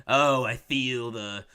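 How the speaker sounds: slow, hammed-up movie weatherman; lightly voiced weatherman. Mocking the film's boring weatherman dialogue, lightly hammed-up weatherman. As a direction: draw out the trite forecast with mock portent.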